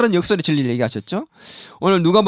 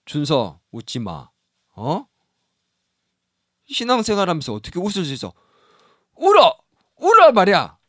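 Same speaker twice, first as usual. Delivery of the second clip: mock stern scolding. Pastor mock-scolding 준서 as a stern Jesus, hammed-up shout. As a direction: bark the order like a joking strict teacher. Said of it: "예수님은 웃음을 싫어하는 분일까".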